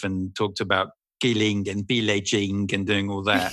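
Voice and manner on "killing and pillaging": lightly put-on Eastern European accent; a touch of Nandor's Eastern European accent. Actor quoting his warrior vampire's talk, light Eastern European accent. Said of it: "the accent I do in it is".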